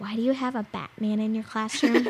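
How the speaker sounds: put-on whisper. Retelling a girl leaning over to the teacher: imitating a whisper. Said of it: "she whispers this".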